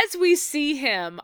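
ordinary talk, nothing marked

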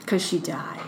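hushed, voiceless ghost-story whisper; spooky whisper. Acted. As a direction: whisper it like the end of a campfire tale. Spooky punchline about the death.

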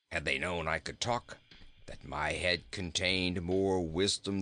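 dry, calm goat. Acted. Goat explains his escape to the boy, low and calm. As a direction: stretch it low and unruffled.

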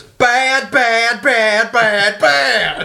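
high, loud clipped "bad, bad, bad"; imitating Juliet. Friend quoting Juliet's repeated "bad" in the movie. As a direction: mimic her repeating "bad" over and over. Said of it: "She goes".

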